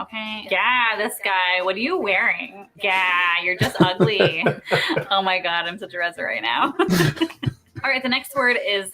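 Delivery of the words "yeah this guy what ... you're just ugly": opening "Yeah" dragged long on the a; slow, teasing insult leaning on "Yeah"; accentuated vowel. Shown as a demonstration. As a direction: stretch the vowel of "Yeah" in a mock put-down. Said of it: "You have to accentuate the a".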